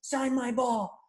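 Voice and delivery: put-on high, slow, pleading kid nagging a player; whiny kid yelling. Imitating the kid yelling at Tim Raines for an autograph, high and whiny. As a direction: stretch it out like an annoying brat. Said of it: "And the kid is yelling at him".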